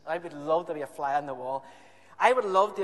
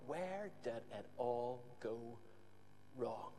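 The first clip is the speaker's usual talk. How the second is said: mild rueful Haman; 6 semitones lower, 15 dB quieter, slower than usual. Acted. Haman's humiliated thought.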